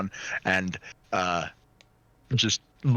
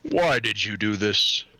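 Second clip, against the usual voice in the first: extremely deep bass voice; 3 semitones lower than usual. Acted. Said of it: "In this, in the deepest voice you can hear".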